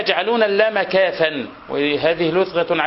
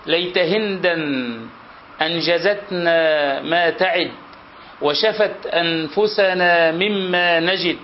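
slow measured verse reading; poem recitation; slower than usual. Shown as a demonstration. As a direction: recite slowly like classical poetry. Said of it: "recites poetry verse".

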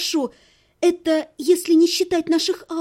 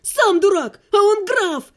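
high, loud snapped comeback; angry retort; 6 semitones higher, 4 dB louder, slower than usual. Acted. Heroine snapping back at her ex, angry. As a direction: fire it back at him.

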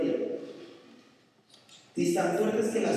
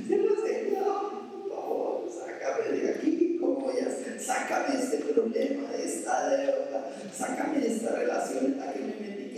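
much higher, half-whispered begging; desperate prayer; 5 semitones higher than usual. Acted. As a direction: beg the Lord in panic, breathless. Acted desperate prayer in trouble.

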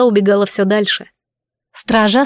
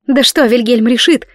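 blurted out; 2 semitones higher, 3 dB louder than usual. Acted. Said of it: "выпалила я".

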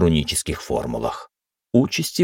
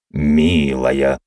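reproachful; 2 semitones lower, 4 dB louder than usual. Acted. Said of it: "укоризненно сказал Гордон".

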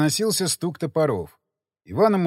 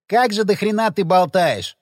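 gruff, louder grumble; annoyed grumbling complaint; 4 semitones higher, 4 dB louder than usual. A narrator's reading. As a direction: grouse at him irritably. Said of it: "послышалось ворчание Ходокири".

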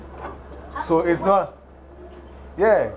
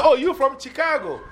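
mock recognition; 8 semitones higher than usual. Mimics remarks on someone's accent.

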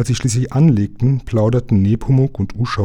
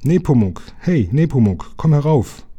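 higher-pitched call down a hatch; summoning someone out of sight; 5 semitones higher than usual. A narrator's reading. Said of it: "rief durch das Kohlen-Nachschubloch".

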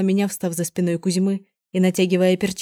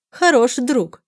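louder, higher scornful laugh; mocking laugh; 6 semitones higher, 6 dB louder, slower than usual. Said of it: "рассмеялась дама в шляпке". (насмешливо смеясь)

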